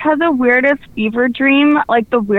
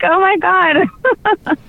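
shocked; 8 semitones higher, much slower than usual. Retold or imitated. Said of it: "I was like".

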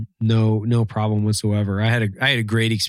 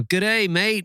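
high, hammed-up accent that drifts Australian; a bad attempt at a Canadian accent; botched Canadian accent; 10 semitones higher, slower than usual. Imitating a Mountie at the border, botched Canadian accent. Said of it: "I can't do a Canadian accent, but I'll try".

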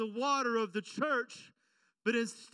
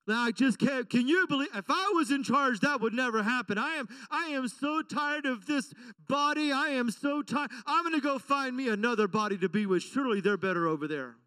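whiny grumbling crowd, lightly voiced; lightly hammed complaining voices; mock complaining Israelites; 2 semitones higher than usual. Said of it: "they start complaining".

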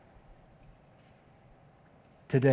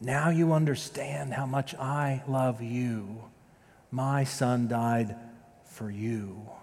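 gentle divine voice; slower than usual. Retold or imitated. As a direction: deliver it slowly like a loving whisper from above. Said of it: "and it said to me".

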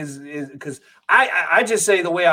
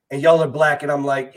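ordinary delivery

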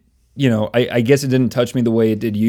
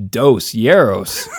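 put-on Spanish accent; 4 dB louder, much slower than usual. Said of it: "Or as they would say".

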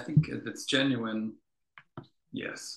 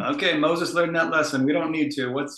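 louder, higher, brisk wrap-up; breezy mock dismissal; 4 semitones higher, 5 dB louder than usual. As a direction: wave it off, ready for the next item. Voicing people moving on from lesson.

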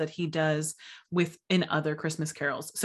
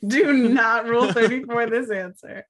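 put-on English old lady; 5 semitones higher, 5 dB louder than usual.

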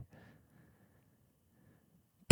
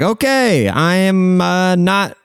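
mock exasperated, pitched way up; high-pitched exasperation; 7 semitones higher than usual. Giving up on the persistent stripper, high-pitched exasperation. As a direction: act out being done, voice jumping high. Acting out his exasperated exit.

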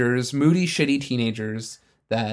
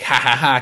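cackling witch laugh; 3 dB louder than usual. Retold or imitated. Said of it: "cackling witch".

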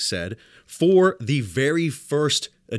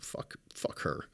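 breathy whispered curse under the breath; muttered whispered swear; 15 dB quieter, slower than usual. Retold or imitated. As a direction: hiss it privately, slow. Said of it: "I was like".

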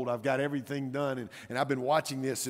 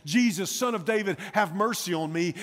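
raised, higher-pitched plea in full preaching voice; desperate crying out; 6 semitones higher, 5 dB louder than usual. Acted. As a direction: cry out for mercy, loud and urgent. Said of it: "to cry out in his brokenness".

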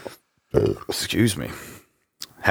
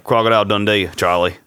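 put-on Aussie film-hero voice; finding the Australian voice; Australian accent. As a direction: Crocodile Dundee style Australian. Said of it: "get in the Australian voice".

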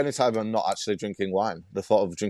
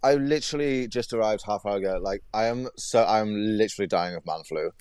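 stuffy nose from a cold; nasal voice. Real, not acted. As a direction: speak with a blocked nose. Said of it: "excuse my nasally voice".

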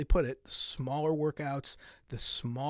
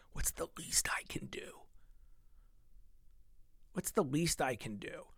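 whispered question; 9 dB quieter than usual. Shown as a demonstration. To viewers, whispering the lazy question. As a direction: whisper it softly. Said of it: "repeats the question two ways".

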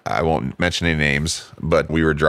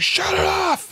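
mock cop yell; slower than usual. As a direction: play the screaming cop as a squeaky joke. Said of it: "He's like".

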